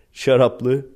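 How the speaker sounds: said through a laugh. Real, not acted. Describing the fancy pasta, laughing. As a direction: laugh the word out.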